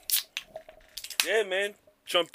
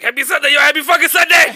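impression of Karate; 6 semitones higher, 8 dB louder than usual. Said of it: "When Karate was like".

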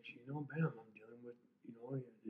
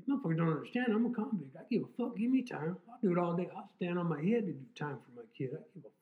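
loud, higher furious yelling; retold shouting; 5 semitones higher, 8 dB louder than usual. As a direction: blow up at the desk. Shouting at police station.

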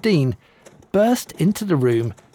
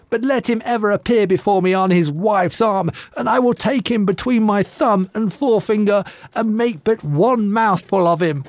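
menacing threat; 7 semitones higher than usual. Acted. Giantess threatens the groom.

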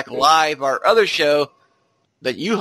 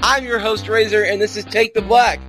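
ringmaster; 6 semitones higher than usual. Acted. Circus-style podcast intro over music.

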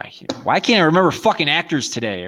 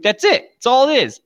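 much higher, louder mock declaration; mock character voice; 13 semitones higher, 7 dB louder than usual. Retelling Clerks scene, high mocking quote. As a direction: squeak it out as the movie guy. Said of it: "He's like".

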